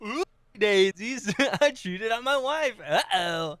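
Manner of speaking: high, bouncy clown voice, slow start; birthday clown voice. Pretend. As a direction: play it like a goofy party clown. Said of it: "he sounds like a birthday clown".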